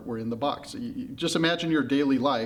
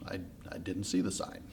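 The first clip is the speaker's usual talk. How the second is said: low, hushed admission; sheepish; 7 semitones lower, 11 dB quieter than usual. Acted. Pandora admitting she missed the sign, sheepishly. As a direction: back down softly, halting at the start. Pandora caught out after pause.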